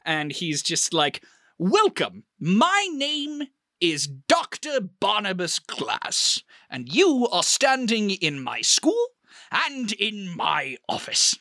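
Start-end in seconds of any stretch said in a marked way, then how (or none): 1.6-11.3 slow, a touch more serious welcome; grave but with a twinkle; mock serious headmaster. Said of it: "takes on a slightly more serious and somber tone".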